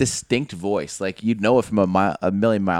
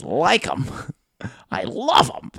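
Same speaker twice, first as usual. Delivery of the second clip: excited buddy voice; 5 semitones higher, much slower than usual. Retold or imitated. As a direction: jump higher on love. Excitable buddy Hunter quoted.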